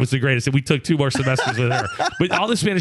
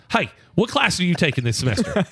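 lightly voiced mom, pitched a bit higher; a hint of a mom asking questions; mom's voice; 5 semitones higher than usual. Mom asking her son about his classes, mom's voice. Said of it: "let me give you my mom's voice".

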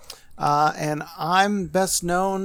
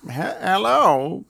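put-on old prospector; 4 semitones higher, much slower than usual. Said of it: "I can't even do it".

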